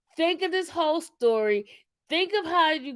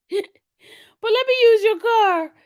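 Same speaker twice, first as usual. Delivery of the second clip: mock-secret whisper, higher and slow; sly whispered con man; 7 semitones higher, 6 dB louder, slower than usual. Retelling the con man asking Sam for the car, in a sly mocking whisper. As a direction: hush it like a schemer sweet-talking for the car.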